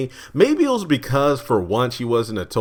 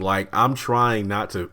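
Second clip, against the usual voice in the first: talking slow. Real, not acted. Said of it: "I'm talking kinda slow".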